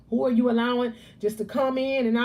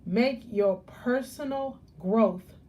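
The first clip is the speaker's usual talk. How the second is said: personal drawn out slowly, leaned on; slow emphatic personal growth; stress on personal; slower than usual. Shown as a demonstration. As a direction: lean on the word personal, slow. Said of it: "I'm gonna emphasize that word personal".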